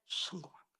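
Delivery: 성공한다 dropped to a near whisper; hushed repeat. Real, not acted. Preacher repeating the promise to office-bearers, 성공한다 hushed and whispery. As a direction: let 성공한다 fall soft, almost voiceless.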